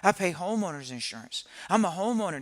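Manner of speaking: loud, high hammed-up brag of a proud homeowner; mock boast shouted about a mortgage as a badge; mocking bragging homeowner. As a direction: puff up and crow about owning a house. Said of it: "This is what they say".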